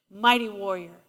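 low solemn God voice. Acted. God names Gideon.

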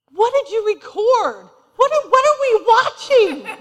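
the husband asks what she recorded, in mock alarm. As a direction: play the shocked husband. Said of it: "my husband is so funny. He's like".

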